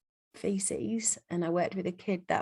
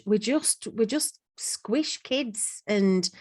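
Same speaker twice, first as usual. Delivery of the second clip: whispered; slower than usual. Real, not acted. Exasperated aside about exam pressure.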